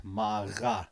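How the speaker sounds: "Ma", short gap, "ra"; little pause. Shown as a demonstration. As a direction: pause lightly between "Ma" and "ra". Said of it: "Make a little pause".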